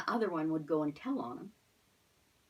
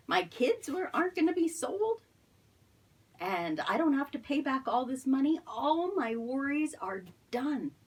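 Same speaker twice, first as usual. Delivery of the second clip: higher, louder burst of relief, the last line slowed; relieved joy; 6 semitones higher, 4 dB louder than usual. Acted. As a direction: gush with relief as the freed servant. Relieved servant's happy thoughts.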